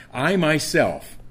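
"myself" stressed, slow and deliberate; emphatic myself. Shown as a demonstration. Preacher explaining emphasis, stressing "myself". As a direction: lean hard on "myself". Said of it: "it's very emphatic".

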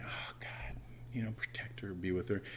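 whispered plea; hushed, distressed prayer. Retold or imitated. Father recalling prayer after daughter's seizure, whispered. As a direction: drop to a whisper, praying under the breath.

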